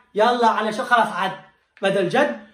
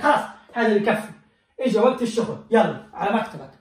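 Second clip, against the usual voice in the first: mock angry boss; faster than usual. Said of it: "قال لك".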